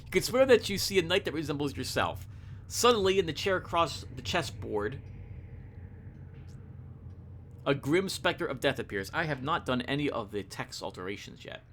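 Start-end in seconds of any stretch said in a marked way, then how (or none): 0.0-9.1 measured, suspenseful reading; story narration. A narrator's reading. Revealing the specter across the chessboard, story narration. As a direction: pause before the reveal. Reads the game's story text.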